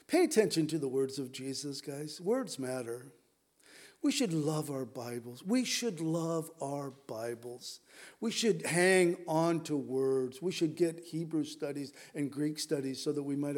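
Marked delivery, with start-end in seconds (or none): 5.4-7.8 slow, each word weighed; slow it down and lean on it; slow emphatic. Shown as a demonstration. Preacher repeats to congregation, slow and emphatic. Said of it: "repeated slower".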